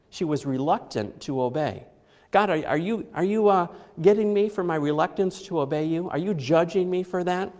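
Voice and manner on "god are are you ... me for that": anxious accusing. Retold or imitated. Mother asking God if He punishes.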